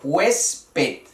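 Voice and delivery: Huésped in two separated beats, HUÉS-ped; careful teacher's split of Huésped; syllable demonstration. Shown as a demonstration. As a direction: sound out Huésped with stress on the first syllable. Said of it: "es una palabra llana".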